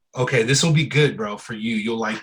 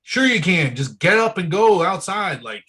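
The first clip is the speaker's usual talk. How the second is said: dismissive scoff; 4 semitones higher than usual. Retold or imitated. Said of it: "And I was like".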